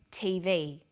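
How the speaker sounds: T V said slowly, the V stronger; stress on last letter. Shown as a demonstration. Teacher showing learners primary stress, V of T V stressed. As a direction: say T V, weight on the V. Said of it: "last letter is pronounced more strongly".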